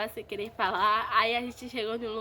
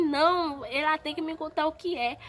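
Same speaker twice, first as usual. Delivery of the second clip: lightly imitating a worked-up dad, higher; agitated insistence; 5 semitones higher than usual. Retelling dad overruling mom's plea to wait, mildly agitated. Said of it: "meu pai tava muito alterado".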